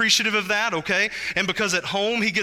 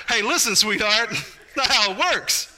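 gentle parent correction; 3 semitones higher than usual. Retold or imitated. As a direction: talk down to a small child kindly. Parent gently correcting her child.

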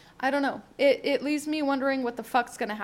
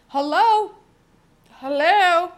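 exasperated hello; 4 semitones higher, 9 dB louder, slower than usual. Retold or imitated. Ignored after talking to man.

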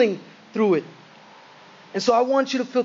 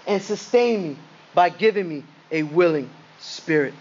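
prayerful scripture reading. Acted. Preacher reading David's prayer to the congregation, prayerful and measured. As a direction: read it as a deliberate plea to God.

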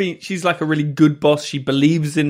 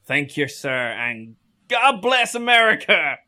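slow, proud mock-American accent; drawn-out patriotic American accent. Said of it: "did an American accent".

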